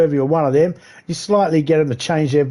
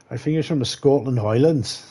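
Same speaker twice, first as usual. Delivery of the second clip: half-hearted attempt at a Scottish accent; bad Scottish accent. Shown as a demonstration. Comedian who can't do accents, attempting a bad Scottish accent. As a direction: have a clumsy go at sounding Scottish. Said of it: "I can't do Scottish accents".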